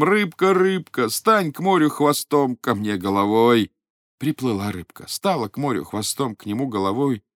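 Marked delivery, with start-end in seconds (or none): 0.0-3.7 loud call. Acted. Old man calls the fish a third time, loud call. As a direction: call the fish loudly over the waves. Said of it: "Говорит громким голосом".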